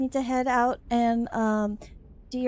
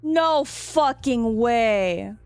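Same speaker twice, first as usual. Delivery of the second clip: stunned disbelief; 2 semitones higher, 6 dB louder, much slower than usual. Real, not acted. Streamer stunned by plot twist.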